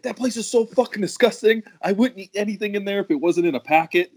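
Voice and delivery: high-pitched mock outrage; retold disgusted complaint; pissed off. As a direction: imitate an indignant rant, pitched well up. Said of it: "he's all fucking pissed off".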